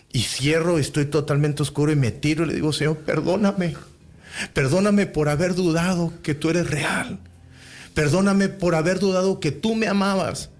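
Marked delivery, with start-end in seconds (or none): 2.7-10.5 higher-pitched plea to God; earnest, raised-pitch plea; retold pleading prayer. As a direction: re-enact begging God for forgiveness. Retold tearful prayer for forgiveness.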